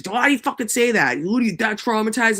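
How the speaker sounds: high, mock annoyed yell; imitating cousin yelling. Imitating cousin who yells at her, high mock outburst. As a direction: play the cousin snapping back. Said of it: "He's like".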